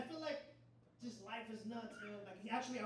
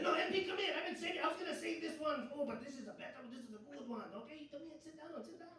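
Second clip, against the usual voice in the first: eager prisoner luring the guard back, higher then hushed; detainee calling back; 5 semitones higher than usual. Retold or imitated. Detainee calling the MP back, eager then hushed. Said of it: "I walk away and say".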